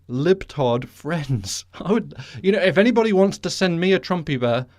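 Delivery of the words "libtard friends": slow mocking air-quote drawl; sarcastic air quotes. Real, not acted. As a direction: say it with scorn, slowly. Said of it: "in quotes".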